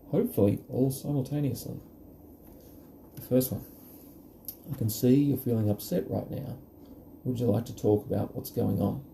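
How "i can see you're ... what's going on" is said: kind and unhurried, an open invitation; gentle caring tone. Shown as a demonstration. Parent gently inviting an upset child to talk, caring tone. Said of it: "Notice how the tone's really important".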